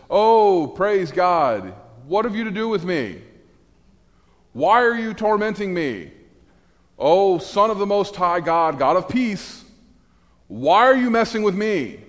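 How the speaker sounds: high, loud, frantic demon cry; panicked demon. Acted. Preacher voicing the tormented demon pleading with Jesus, high and loud. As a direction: shriek it out like a cornered demon. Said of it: "And the demon says".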